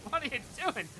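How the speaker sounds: surprised questioner. Acted. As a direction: ask it in alarm. Acted exchange about crimes.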